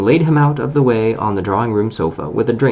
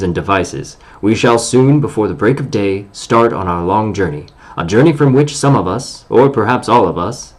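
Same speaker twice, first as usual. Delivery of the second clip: pompous dwarf speech. Acted. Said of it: "This was Thorin's style".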